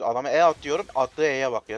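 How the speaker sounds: loud indignant rant; loud complaint. Real, not acted. Streamer ranting to viewers about his teammate, loud and indignant. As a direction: vent at the viewers.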